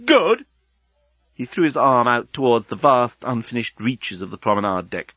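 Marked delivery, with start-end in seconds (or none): 0.1-0.4 slow, high-pitched indignant shout; outraged yell. A narrator's reading. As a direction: draw it out in furious disbelief. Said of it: "yelled Leovinus".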